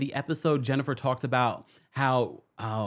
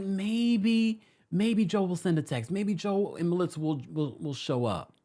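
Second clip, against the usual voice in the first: higher-pitched, tentative wishful voice; softie's hope; 6 semitones higher than usual. Retold or imitated. Softie viewer hoping the brother shows up, wishful. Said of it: "maybe 'cause I'm a softie".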